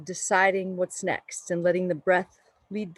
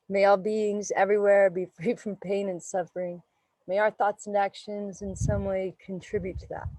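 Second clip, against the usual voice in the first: closing blessing. Acted.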